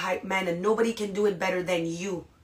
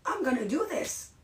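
higher, rising self-pep; imitating a pumped-up newbie, higher pitched; pumped-up self-talk; 4 semitones higher than usual. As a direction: hype yourself up line by line. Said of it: "in their head, they're like".

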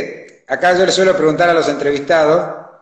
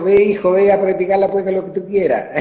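Chilean lilt; 3 semitones higher than usual. Retold or imitated. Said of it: "con la tonada chilena". (imitación ligera de la tonada chilena de la madre, más aguda)

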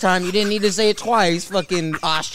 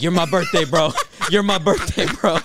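laughing mock.

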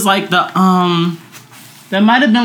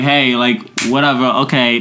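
low, offhand mock indifference; lightly acted unbothered reply; dismissive gif reaction; 5 semitones lower than usual. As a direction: shrug it off in a lower voice. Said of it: "I just sent a little T emoji".

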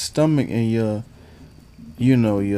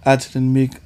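put-on Southern accent; 2 semitones higher than usual. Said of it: "I had to give y'all the accent".

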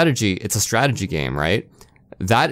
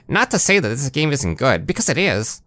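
nasally nerd voice; 3 semitones higher than usual. Retold or imitated. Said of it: "I can do the nasally nerd voice here".

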